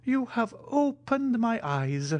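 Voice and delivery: put-on high, slow and solemn old major; grave Italian. A narrator's reading. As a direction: say it with mock gravity. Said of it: "said the Italian gravely".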